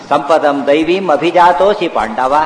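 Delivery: slow, drawn-out Sanskrit verse; verse recitation. Retold or imitated. Preacher quoting Krishna's answer to Arjuna, slow verse recitation. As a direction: recite it measuredly with long vowels.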